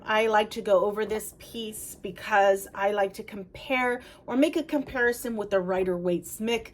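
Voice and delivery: rushed, words running together and slurring at the end; talking too fast. Real, not acted. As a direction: hurry through it, tripping slightly. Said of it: "I'm trying to talk too fast".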